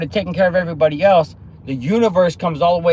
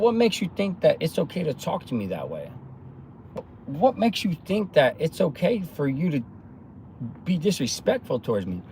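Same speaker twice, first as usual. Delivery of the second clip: calm; 6 dB quieter than usual. Retold or imitated. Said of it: "I'm talking to him calmly".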